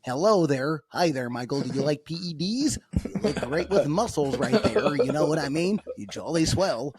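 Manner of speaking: mock white American accent. Shown as a demonstration. Making fun of Americanized speech, white American accent. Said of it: "the white person accent".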